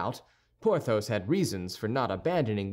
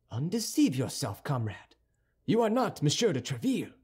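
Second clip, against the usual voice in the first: lightly voiced proud swordsman, a bit higher; a hint of a stiff, offended nobleman; haughty musketeer; 3 semitones higher than usual. Wounded musketeer scolding a hasty youth, lightly voiced. Athos rebukes D'Artagnan.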